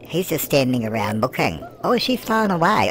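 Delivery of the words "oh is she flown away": a high, loud gasp of a question; sudden surprise that she vanished; a startled squeak of a question; surprised. Real, not acted. Witch suddenly gone.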